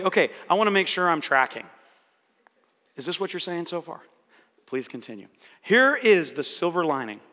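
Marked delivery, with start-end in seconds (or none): 0.0-5.3 smiling reply. Shown as a demonstration. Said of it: "just smile and say".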